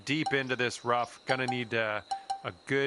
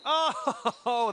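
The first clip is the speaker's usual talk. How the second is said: surprised; 12 semitones higher than usual. Real, not acted. Shot narrowly misses.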